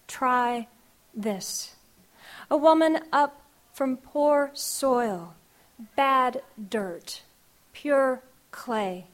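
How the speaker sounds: measured, rhythmic spoken-word delivery; poem reading. Acted. Poet reading her grandmother poem to the audience, rhythmic. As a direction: let each image land in the verse.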